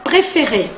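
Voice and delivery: préféré with three identical closed é's; French préféré, every E a closed é; French pronunciation. Shown as a demonstration. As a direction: say préféré the French way, throaty r at the end. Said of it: "pronunciar de la misma manera".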